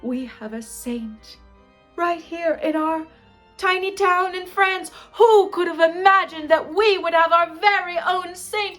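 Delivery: put-on impassioned French-accented proclamation, building loud and high. French gravedigger announcing a saint, accented and exultant. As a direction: rise to French-accented rapture. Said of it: "actually, he was French".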